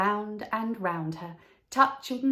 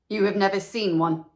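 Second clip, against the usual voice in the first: stern master; 6 dB louder than usual. Acted. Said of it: "said the mathematical master".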